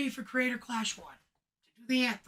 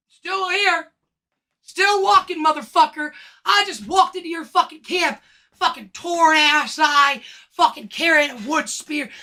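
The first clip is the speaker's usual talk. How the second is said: defiant; 4 dB louder than usual. Real, not acted. Defiant rant at Ian.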